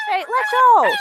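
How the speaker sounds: high urgent shout to let go; sharp command. Real, not acted. Owner ordering dog to release goose, urgent shout.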